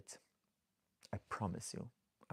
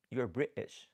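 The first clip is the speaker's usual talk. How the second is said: louder, punchy mock-British accent; 2 semitones higher, 6 dB louder than usual. Shown as a demonstration. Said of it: "I love the accent".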